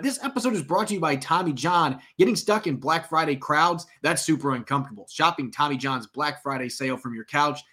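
upbeat sponsor read; holiday sale ad. Acted. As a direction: sell it like a radio ad. Sponsor ad read mid-podcast.

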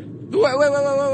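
high, loud, rapid repeated wait; urgent wait. Real, not acted. Host halting the Hunter Biden clip, urgent high calls. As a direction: cut in fast to stop the clip. Stopping the clip mid-sentence.

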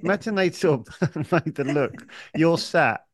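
talking through real laughter; amused, laughter breaking into the words; laughing. Real, not acted. Amused by the imagined lookalike.

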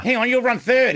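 high and loud, urgent; excited. Real, not acted. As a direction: call it out as it happens. Watching bet finish live.

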